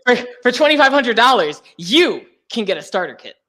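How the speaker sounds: high chirpy laughing pitch; MLM sales pitch. Pretend. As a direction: upsell with fake cheer.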